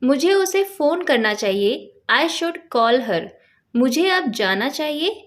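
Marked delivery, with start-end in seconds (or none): 2.1-3.2 very slow, carefully spaced English words; slow teaching demo. Shown as a demonstration. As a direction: dictate it word by word to a learner. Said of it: "example देखिए".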